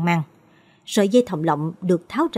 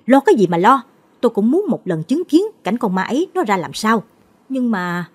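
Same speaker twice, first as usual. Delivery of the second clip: loud, irritated snap; sharp snap; 3 semitones higher, 4 dB louder than usual. Acted. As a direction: cut her worry off sharply. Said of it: "Chú Mạnh gắt".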